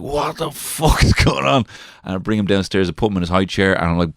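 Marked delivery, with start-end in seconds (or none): 0.0-1.6 put-on bewildered toddler. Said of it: "he's like".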